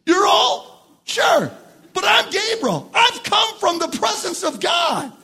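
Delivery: high, incredulous question turning to emphatic retort; Gabriel. Acted. Angel from God's presence answering Zechariah, emphatic. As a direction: play an affronted angel asserting his rank. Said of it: "how Gabriel responds also in the emphatic".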